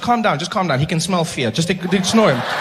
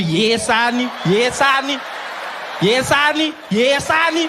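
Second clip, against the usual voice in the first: rising higher and louder with each yes; mock battle yell; 7 semitones higher, 4 dB louder, slower than usual. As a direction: build from shout to shriek. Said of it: "You just needed to flinch and be".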